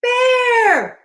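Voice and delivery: high, loud cry for help; panicked call. Acted. Hippo flees calling Bear, high panicked shout. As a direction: cry out for a friend in mock panic.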